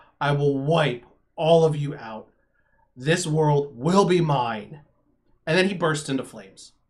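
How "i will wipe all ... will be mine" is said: infernal voice, louder and slower. Narrator voicing a villain threatening the group, infernal voice. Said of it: "it's it's in an infernal sounding voice".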